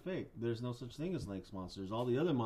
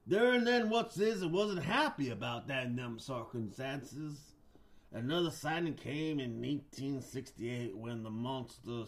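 story narration. Acted. Host tells monster legend, storyteller voice fading at the end. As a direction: spin it like a spooky campfire legend.

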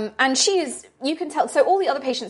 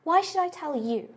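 put-on high knowing old lady; sly old woman; 7 semitones higher, 4 dB quieter than usual. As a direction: tease like a shrewd grandmother. Doris guarded.

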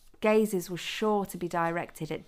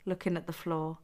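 plain reading voice

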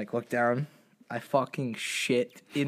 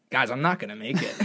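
laughing; 3 semitones lower than usual. Real, not acted. Laughing at embarrassing moment.

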